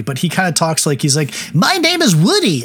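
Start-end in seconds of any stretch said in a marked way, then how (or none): 1.5-2.6 put-on Michael Crawford's odd accent. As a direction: mimic a strange, stilted actor's accent. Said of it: "I will attempt it very briefly".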